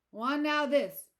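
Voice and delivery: loud, slurred deep-South drawl; slurred Southern accent. A narrator's reading. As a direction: stumble over it in a Southern accent. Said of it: "He stumbled in a deep Southern accent".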